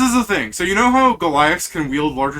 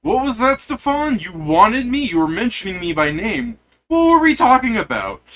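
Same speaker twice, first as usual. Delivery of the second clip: loud, high booming giant voice; bellowing giant; 8 semitones higher, 5 dB louder than usual. Acted. Giant bellowing back at Stefan, loud and high. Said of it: "turn bellowing, going".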